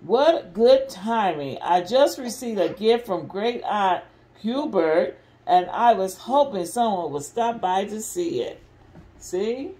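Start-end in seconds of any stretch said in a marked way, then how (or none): 0.0-8.6 lively, expressive picture-book reading; mother reading a Disney story to restless kids, lively and expressive; reading to children. Acted. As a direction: read it out big for the little ones. Reads Winnie the Pooh to kids.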